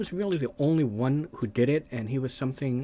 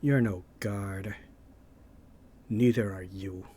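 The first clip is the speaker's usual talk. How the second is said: low movie quote; 3 semitones lower than usual. Retold or imitated.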